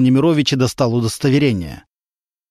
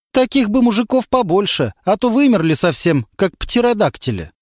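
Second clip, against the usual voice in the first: ironic; 7 semitones higher than usual. A narrator's reading. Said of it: "с иронией добавила".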